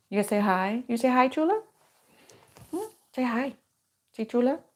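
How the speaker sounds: real coaxing talk to a dog; coaxing pet talk. Real, not acted. Owner asking her puppy to greet viewers, coaxing. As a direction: gently prompt your puppy to greet everyone.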